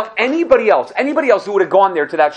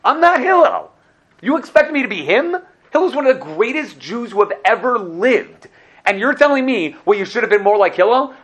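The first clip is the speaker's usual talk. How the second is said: high, loud, outraged protest; a man at heaven's gate arguing back in disbelief; indignant retort; 7 semitones higher, 3 dB louder than usual. Pretend. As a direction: throw the question back, exasperated and offended. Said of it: "And I said".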